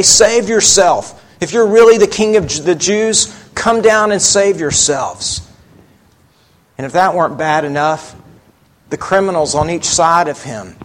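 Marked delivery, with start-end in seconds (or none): 0.0-5.4 retold jeer, higher and louder; derisive taunt. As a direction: taunt him as the mocking religious leaders. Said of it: "they deride him and they say".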